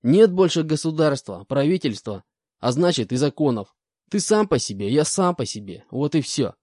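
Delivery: high, loud indignant convict; defiant rant. Acted. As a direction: bristle and refuse to answer. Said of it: "продолжал ерепениться бес".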